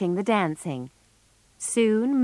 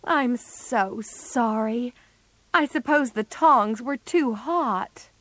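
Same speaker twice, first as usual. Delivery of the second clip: higher-pitched, distressed regret; unhappy apology; 5 semitones higher, slower than usual. A narrator's reading. Jo apologises to Meg for burning her hair, unhappy. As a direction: apologise miserably, starting very slow. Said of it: "said Joe unhappily".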